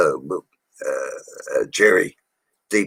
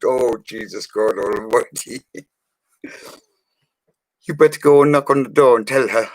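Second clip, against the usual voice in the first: mock horrified boss; 5 semitones higher than usual. Jerry reacting to the smashed car, mock horrified. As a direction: play the shocked Irish boss. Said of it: "He went".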